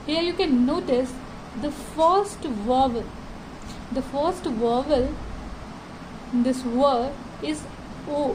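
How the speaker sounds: reading each word very slowly and deliberately; slow textbook reading. Shown as a demonstration. Teacher reads the lesson text aloud to students, very slow. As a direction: read it out word by word for the class.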